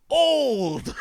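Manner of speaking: loud, high holler at a stranger; yelling out the window. Retold or imitated. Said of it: "leans out the window and goes".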